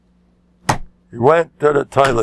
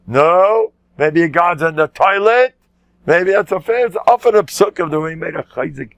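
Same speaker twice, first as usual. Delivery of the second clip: mocking prophet; 3 semitones higher, 3 dB louder than usual. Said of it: "Eliyahu Navi was a happy Jew".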